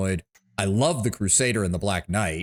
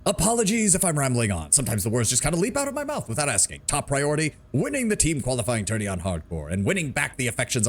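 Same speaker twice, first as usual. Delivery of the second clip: Duncan Fisher impression; 3 semitones higher than usual. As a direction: act like a smug arena celebrity. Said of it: "my best Duncan Fisher impression".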